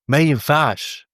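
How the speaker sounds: slow, stretched-out ما ينفعش, each syllable leaned on; drawn-out verdict. Real, not acted. Fan ranting at the coach, slowly stretched out in disbelief. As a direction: drag it out like a final verdict.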